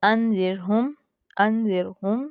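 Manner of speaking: र in अनजिरहुम light and thin, not ज़िर. Shown as a demonstration. Teacher modelling correct thin रॉ for students. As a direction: say अनजिरहुम with a fine, empty-mouth र. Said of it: "ज़िर, ज़िर नहीं पढ़ेंगे".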